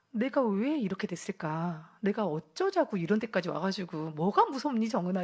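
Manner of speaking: mildly scolding oneself; self-reproach. Retold or imitated. Woman scolding herself after running away scared, mildly reproachful. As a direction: replay a reproachful talking-to at yourself. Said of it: "저에 대해서 막 이제 이렇게 질책을 하면서".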